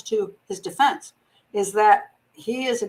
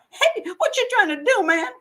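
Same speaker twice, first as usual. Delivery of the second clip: alarmed shout; 9 semitones higher than usual. Retold or imitated. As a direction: yell it out, startled. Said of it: "he shouted out in alarm".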